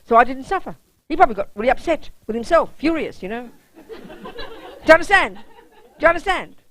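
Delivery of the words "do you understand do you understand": laughing. Real, not acted. Laughing while asking students.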